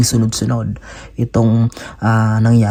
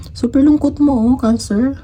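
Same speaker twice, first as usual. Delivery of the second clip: much higher, wailing sympathy; pitying cry; 12 semitones higher than usual. Acted. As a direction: pour out pity for the sad sign. Pitying a sad zodiac sign. (naaawang tinig, mataas na mataas)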